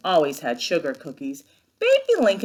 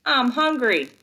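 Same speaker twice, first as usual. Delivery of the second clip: Mercy's thought; 6 semitones higher, 4 dB louder than usual. Retold or imitated. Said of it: "Mercy's thinking".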